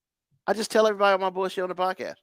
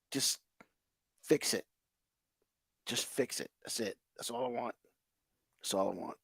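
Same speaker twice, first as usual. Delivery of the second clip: tired plea; 6 semitones lower, 12 dB quieter than usual. Real, not acted. Exhausted plea after the rant.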